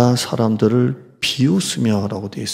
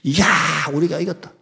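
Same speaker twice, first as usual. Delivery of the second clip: gloating enemies; 5 semitones higher, faster than usual. Retold or imitated. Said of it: "원수들이".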